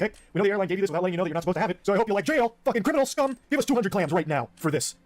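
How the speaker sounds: hammed-up security guard tearing into passengers; mock furious official.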